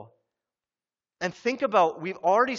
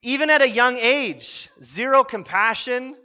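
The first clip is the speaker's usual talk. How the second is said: laughing; 5 semitones higher, 8 dB louder than usual. Real, not acted. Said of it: "laughing at the story".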